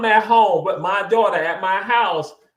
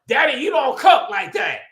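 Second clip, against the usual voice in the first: cheeky little daughter's jab, a bit higher; smart-mouthed daughter; 8 semitones higher, 4 dB louder than usual. Retold or imitated. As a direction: tease Daddy like a smart-mouthed kid. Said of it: "her little smart mouth".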